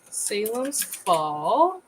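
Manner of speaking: Salem's Fall stretched out very slowly while typing; very slow said-while-typing title; slow typing dictation. Real, not acted. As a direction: drag out Salem's Fall as you type it in. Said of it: "There we go".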